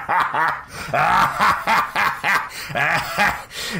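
long high burst of laughter. Real, not acted. Streamer sees a ridiculous face on screen, real laughing fit. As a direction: crack up helplessly, high-pitched.

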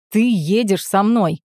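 slow, firm growled order; slow growled command. A narrator's reading. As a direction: lay down the law to your sister. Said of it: "прорычал Роберт".

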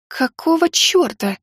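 high, slow startled swear; shocked curse. Acted. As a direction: blurt it out in alarm. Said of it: "выругалась я".

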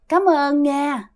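slow, gentle ghostly thank-you. Retold or imitated. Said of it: "bả cười rất nhẹ nhàng". (cảm ơn chậm rãi, nhẹ nhàng)

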